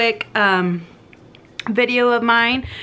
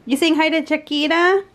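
pet talk; 5 semitones higher than usual. Real, not acted. Talking to pets.

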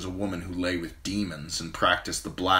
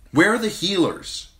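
much higher, louder urgent demand; 13 semitones higher, 7 dB louder than usual. Acted. Queen demands healers for her wounded khal, high urgent call. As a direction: demand it sharply. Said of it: "she demanded".

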